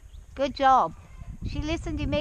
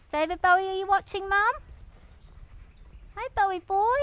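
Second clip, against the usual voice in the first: higher, louder, bright call to a pet; calling the dog; 7 semitones higher, 3 dB louder than usual. Real, not acted.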